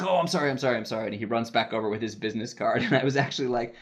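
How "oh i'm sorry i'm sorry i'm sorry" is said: imitating a flustered, repeated apology; higher start, tumbling down through mock apologies. Assistant director apologizes to ignored guest, imitated flustered apology. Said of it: "he gets all flustered".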